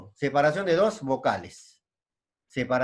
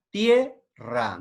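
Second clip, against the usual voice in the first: "tierra" split as tie, pause, rra; syllable by syllable; 2 semitones lower, 3 dB louder than usual. Shown as a demonstration. Teacher giving a diphthong example, "tierra" in two beats. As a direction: keep ie joined in "tierra", then pause. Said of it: "¿Dónde está el diptongo?".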